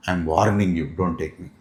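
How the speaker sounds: low, quiet threat; grave small-child ultimatum; child's stern warning. Acted. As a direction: drop low for a solemn little warning. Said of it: "when a small child tells that".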